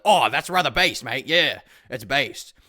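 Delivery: lightly hammed-up British accent, slow at the end; smug, mocking British bloke voice. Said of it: "be like".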